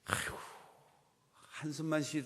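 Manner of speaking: ordinary talk, nothing marked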